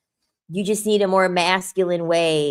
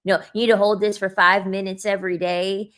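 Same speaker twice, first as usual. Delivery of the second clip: mock looksmaxer advice. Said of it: "That's how they fucking sound".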